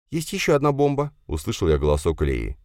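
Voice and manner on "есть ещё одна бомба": put-on high, small girlish voice; spider girl Leya. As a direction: speak as the little spider. Leya's voice. (паучиха Лея говорит тоненьким голоском)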